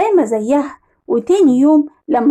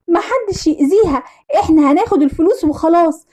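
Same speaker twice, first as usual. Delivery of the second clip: lightly voiced child, a little higher; young daughter; 3 semitones higher than usual. Daughter telling mother about the kidnappers, childlike. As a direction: tell mum what you saw, childlike. Daughter recounts her captivity.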